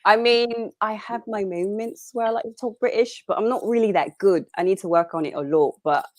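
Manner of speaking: casual put-on British accent. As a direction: slip into a British accent while chatting. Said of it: "falling into these accents".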